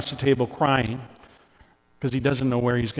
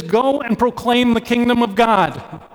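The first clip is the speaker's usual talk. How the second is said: passionate proclamation; 8 semitones higher, 5 dB louder than usual. Shown as a demonstration. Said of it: "more burning, more passionate, more important".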